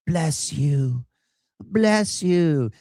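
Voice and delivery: lightly voiced, rising pleading "bless you"; mock tearful widow. Vlogger mimicking the widow at the casket, lightly pleading. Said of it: "crying over him, saying".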